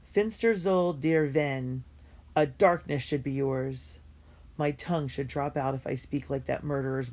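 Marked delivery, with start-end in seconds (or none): 0.0-4.0 slow, drawn-out playful curse; girl hurling a Yiddish curse at teasing Yitzi; mock Yiddish curse. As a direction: lay the curse on him slowly and grandly. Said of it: "I blast him with my best Yiddish curse".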